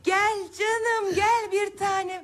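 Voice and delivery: tender. Acted. Coaxing child walking alone.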